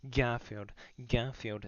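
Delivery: full-throated shout of "Garfield", then fading; yelling. Acted. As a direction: bellow the name, then ease off on the repeats. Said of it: "He yells out".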